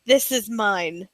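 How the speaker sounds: slow, low mock-solemn voice; mock serious. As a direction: imitate a very serious man, slowly and low. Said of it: "I love how serious he is".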